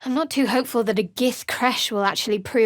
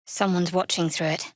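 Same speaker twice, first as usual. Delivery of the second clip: whisper; 4 semitones lower, faster than usual. Acted. Companion warning near a scrying eye, whisper. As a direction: hush it so the watcher can't hear.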